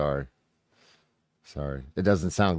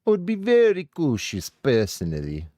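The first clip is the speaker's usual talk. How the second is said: higher, hammed-up parroting of the guest; mocking imitation; 6 semitones higher than usual. Streamer mimicking a cautious guest mockingly. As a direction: echo his words back in a silly high voice. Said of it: "repeating the guest's words".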